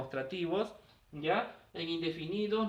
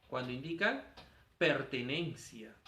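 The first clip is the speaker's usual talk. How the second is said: slow key word; 5 semitones lower, 3 dB quieter than usual. Shown as a demonstration. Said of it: "¿Cuando indica qué?".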